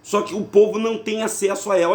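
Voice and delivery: ordinary talk, nothing marked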